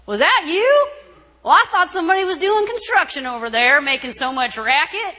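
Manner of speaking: high, loud incredulous question, easing down; loud disbelief; astonished guest. Retold or imitated. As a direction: imitate a surprised man at a party. Astonished guest answers her.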